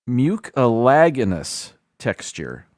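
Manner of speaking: slow, syllable by syllable: mucilaginous; slowly spelling out mucilaginous as a first attempt; careful try at a hard word. Real, not acted. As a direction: sound out mucilaginous carefully, unsure of it. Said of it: "there's a word in there".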